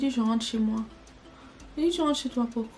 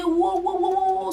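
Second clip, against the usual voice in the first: cris retenus; 8 semitones higher than usual. Retold or imitated. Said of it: "j'ai crié".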